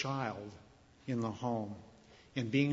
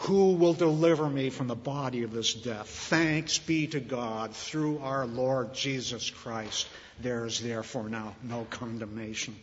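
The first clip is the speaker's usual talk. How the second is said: quiet plea; 3 semitones lower than usual. Retold or imitated. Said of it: "he says".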